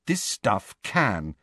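slow, soft and grim. Acted. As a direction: say it as a dark warning. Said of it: "said Hermione grimly".

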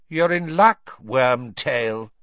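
icy, high villain's voice; cold, high-pitched voice. A narrator's reading. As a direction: speak cold and high, full of menace. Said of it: "said a cold, high-pitched voice".

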